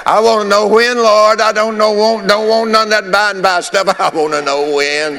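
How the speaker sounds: high, loud wail of protest; comic impatient outcry. Acted. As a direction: cry it out high, like a fed-up plea. Comic impatient plea to the Lord.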